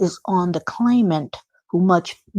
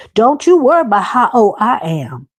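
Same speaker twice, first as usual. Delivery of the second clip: raised, put-on woman's voice; 4 semitones higher, 5 dB louder than usual. Quoting Miss Lanier's reply about her age, in Miss Lanier's voice. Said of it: "I'm going to do it in a voice where I think sh- the way she said it".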